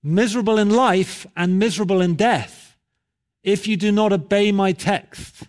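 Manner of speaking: high pulpit warning, settling at the promise; imitated preacher pressing for a decision; exhorting preacher. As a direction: warn emphatically, then ease into assurance. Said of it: "And he went on".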